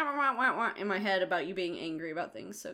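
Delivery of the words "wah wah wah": higher-pitched imitated nagging noise; mocking "wah wah". Imitating partner being angry about things, mocking wah-wah. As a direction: lightly mimic droning complaint. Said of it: "all I can hear is wah".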